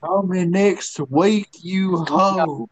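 drawn-out taunting dismissal; slow mocking brush-off. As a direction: stretch it out, mocking. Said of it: "Then leave her and say".

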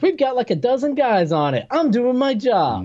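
mock yelling. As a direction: overplay the insistence, mock fury. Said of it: "and Tracy's like".

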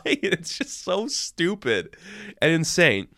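exasperated drawl. Real, not acted. Reviewer groaning at a silly storyline, slow exasperated drawl. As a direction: stretch it out in disbelief at the plot.

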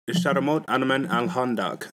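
Sharamot Anaman Al Handak said carefully in Arabic sounds; Arabic phrase. Shown as a demonstration. Teaching friends a Dearborn Arabic line, careful pronunciation. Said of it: "You say".

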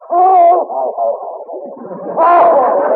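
loud jolly Santa ho-ho-ho; Santa laugh. Acted. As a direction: boom out a Santa laugh for the boy. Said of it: "Is that you, Santa Claus?".

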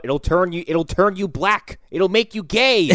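rising into a shrill mock cry of alarm; mock propaganda alarm. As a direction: ham up a panicked anti-drug warning, slowing down. Mocking old drug propaganda.

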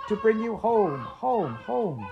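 put-on high, eager little girl; a small sister bursting with news, voiced high. Little sister fetching her brother home, high and eager.

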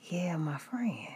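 soft whispered "my friend", falling at the end; hushed bad-news tone. Dentist gently warning patient, soft hushed whisper. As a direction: breathe it like bad news is coming. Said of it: "when she said it like that".

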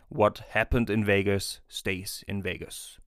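slow, deliberate English catchphrase; quoted film slogan. Acted. Podcast host opening the episode with a famous saying, slow deliberate quote. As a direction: drop the famous line slowly, for effect. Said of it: "fange ich doch mal mit einem bestimmten Satz an".

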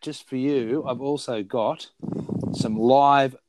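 heavy breaths between words; heavy nose breathing. Real, not acted. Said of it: "Stop breathing, so heavy".

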